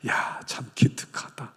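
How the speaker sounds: slow whispered praise; tender praise. Acted. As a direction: whisper slowly, proud and fond. God voiced praising believer. (느리고 다정한 속삭임)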